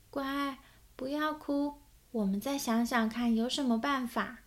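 put-on a touch of a tender mom calming a child; soothing mother. Mother comforts crying Owen.

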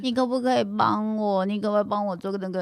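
put-on quick cutesy pleading baby voice. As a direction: whine sweetly for help like a little girl. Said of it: "一起练习一下娃娃音".

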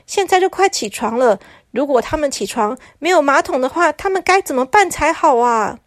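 lightly voiced anxious messenger; pleading messenger. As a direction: coax them to come back.

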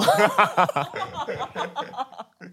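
laughter finally breaking out; bursting into laughter. Real, not acted. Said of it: "因为我在憋笑".

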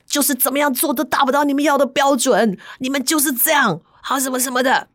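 a hint of the husband scolding; husband's bitter complaint. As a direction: grumble it out bitterly. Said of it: "男生骂".

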